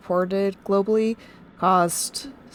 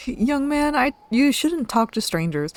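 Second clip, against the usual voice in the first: put-on higher-pitched, amateur Russian accent; 6 semitones higher than usual. Woman cautioning a young man about strangers, attempted Russian accent. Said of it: "this lady has a Russian accent".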